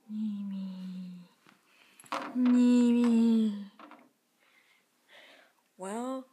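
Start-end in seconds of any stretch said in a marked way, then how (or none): 0.1-3.6 loud call across the house. Real, not acted. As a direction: call the cat from afar. Calling the pet.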